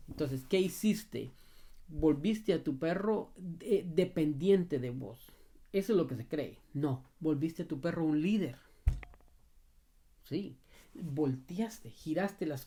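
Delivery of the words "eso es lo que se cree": ordinary delivery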